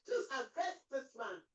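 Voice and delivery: slow, sobbing plea to arrest; tearful demand. Acted. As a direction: beg through tears. Mother demands arrest, crying.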